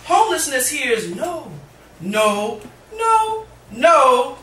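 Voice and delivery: escalating no, no, no; rising no. Acted. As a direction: build the refusals to a cry. Poem builds repeated no.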